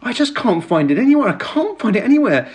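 posh ticket lady flustered. Retold or imitated. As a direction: put on a frightfully posh receptionist voice. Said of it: "frightfully, frightfully posh".

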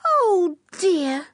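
put-on high girlish cry of dismay; little girl sighing in dismay, high up; Anne dismayed.

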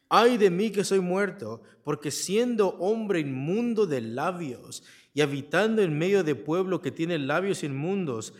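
a hint of Isaiah's dread; exclaiming as Isaiah. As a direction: cry out Ay de mí, then sink. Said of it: "Dice el texto".

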